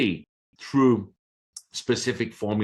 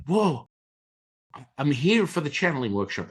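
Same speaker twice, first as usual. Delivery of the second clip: startled protest; 6 semitones higher than usual. Retold or imitated. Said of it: "And I'm like".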